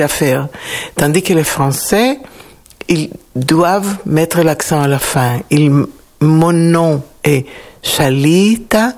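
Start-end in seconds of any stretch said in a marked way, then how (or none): 6.2-8.9 "Shalita" said slowly, with the stress on "lita"; slow, careful "Shalita" that leans on "lita"; Hebrew name stress. Shown as a demonstration. Shalita tells the class how her name sounds in Hebrew, slowly. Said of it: "c'est l'accent sur le lita".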